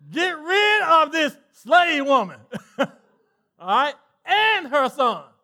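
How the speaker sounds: laughing demand. Acted. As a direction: lay down the law while cracking up. Voicing Sarah's demand, laughing.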